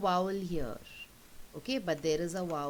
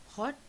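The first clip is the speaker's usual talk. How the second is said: "hot" set off with a pause after it; syllables apart; 6 semitones higher than usual. Shown as a demonstration. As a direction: say "hot" as one separate beat, then stop. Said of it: "take the two syllables apart".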